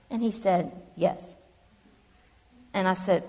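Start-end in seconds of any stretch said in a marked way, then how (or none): 0.9-1.3 imitated deadpan therapist, softer one-word reply. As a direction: answer without any reaction, like the therapist. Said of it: "my therapist was real deadpan".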